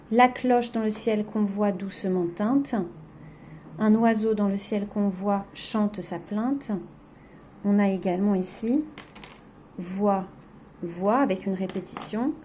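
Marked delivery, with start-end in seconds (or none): 0.1-6.7 slow, measured verse recital; poem reading. Acted. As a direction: let the lines ring out slowly for pupils. Reads the poem aloud.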